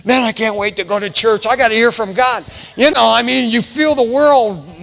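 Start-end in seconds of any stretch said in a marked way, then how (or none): 0.0-2.4 acted eager churchgoer, building in energy; imitated excitement. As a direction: act out barely waiting for church. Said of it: "Remember when you were excited".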